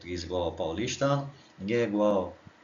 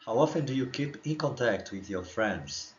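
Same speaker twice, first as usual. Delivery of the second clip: slow model question; slower than usual. Shown as a demonstration. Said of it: "oportunidade, né, de você treinar o seu inglês".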